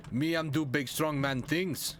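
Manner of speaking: slow, lightly voiced caveman; a hint of caveman brute; big strong man voice. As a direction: dim strongman boasting slowly. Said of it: "like, that accent".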